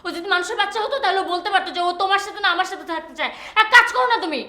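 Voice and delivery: fed up, pitch climbing into a furious rush; angry outburst. Acted. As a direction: lose patience and let the voice rise. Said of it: "চিৎকার করবে না তুমি এখানে".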